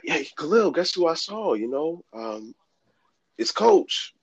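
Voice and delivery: very high, light voice for a sister; imitated sister. Sister announcing who she saw, imitated in high voice. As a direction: mimic her far above your own pitch.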